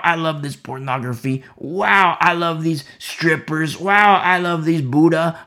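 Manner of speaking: mock someone gushing over sins; mock worldly believer. A preacher mocking a worldly believer, slow hammed-up gushing.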